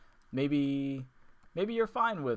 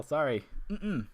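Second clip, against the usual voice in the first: suppressing hiccups; 3 semitones higher than usual. Real, not acted. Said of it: "hiccups are real".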